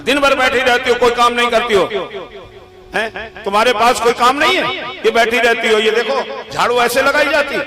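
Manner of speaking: lightly acted nagging complaint; mock husband's scolding. Husband faking a quarrel with his wife, mock scolding. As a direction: scold in pretend annoyance, pressing each charge. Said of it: "पति लड़ना शुरू किया".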